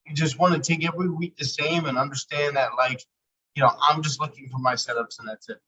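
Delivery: glitchy robotic mic sound. Real, not acted. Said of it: "your mic sounds a little robotic".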